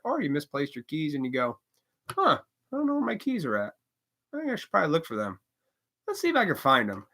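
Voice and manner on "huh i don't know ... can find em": calm. Pretend. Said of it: "then you calmly go about your day".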